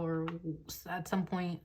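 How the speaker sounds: stumbling and restarting the phrase; stuttering. Real, not acted. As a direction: trip over the words, then get it out. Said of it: "I'm stuttering so bad".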